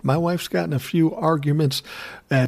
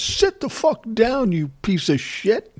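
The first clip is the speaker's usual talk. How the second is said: much higher, slow mock drunk yell; drunk fan yelling; 9 semitones higher than usual. Drunk fan yells at kid.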